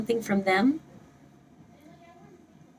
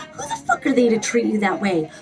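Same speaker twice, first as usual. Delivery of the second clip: angry. Shown as a demonstration. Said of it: "I'm trying to invoke that".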